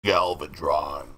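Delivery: low, slow villain name; deep dramatic voice. Acted. Echoing the name, lower and slow.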